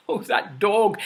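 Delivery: usual speaking voice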